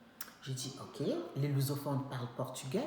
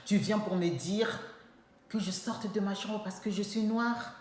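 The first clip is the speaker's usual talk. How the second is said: heated confrontation; 3 semitones higher, 4 dB louder than usual. Retold or imitated. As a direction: tell her off with indignation. Confronting the roommate, retold.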